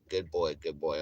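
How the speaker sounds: low, soft praise to a dog; soothing dog praise. Retold or imitated. Owner praising his dog after checking around, soothing. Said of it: "I'll be like".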